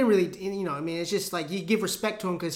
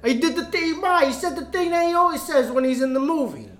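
high, loud, hammed-up excited fan; mock fan hype; 7 semitones higher, 6 dB louder than usual. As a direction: yell for Ma like a giddy kid. Mock fan shouting to mom.

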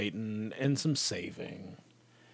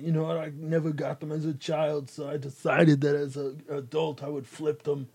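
Arnold; 2 semitones higher than usual. Acted. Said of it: "I do an Arnold impression".

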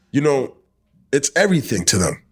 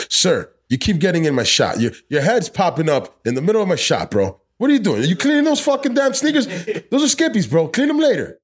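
high, exasperated telling-off; mock scolding, higher and higher; 6 semitones higher than usual. Real, not acted. Scolding friend in shot, joking.

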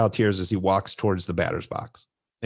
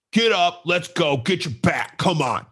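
pushy parent; 6 semitones higher than usual. Pretend. Dad urges his scared son to bat, pushy mock urging. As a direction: pretend to push him like a hard dad. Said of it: "I wanna go over and say".

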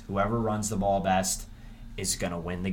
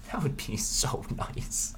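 breathy whisper; 3 semitones higher, 5 dB quieter, slower than usual. Real, not acted. Dreamy aside about O-line dominance.

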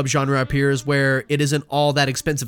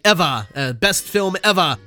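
rough attempt at a Boston accent; light mock Boston accent; imitated Boston accent. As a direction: drop the R in "ever" like a mock Bostonian. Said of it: "can't do his, uh, what, Boston accent".

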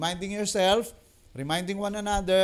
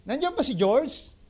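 caller asking; 7 semitones higher than usual. Retold or imitated. Prank caller asks third time.

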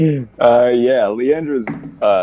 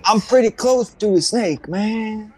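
character voice; 12 semitones higher than usual. Acted. GM voices character, high far.

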